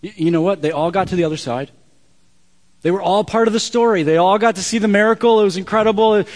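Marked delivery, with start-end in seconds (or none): 2.8-6.2 high, loud preaching burst; loud, excited build; rousing emphasis. Real, not acted. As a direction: raise it up and drive each sentence home. Preacher builds up before contrast.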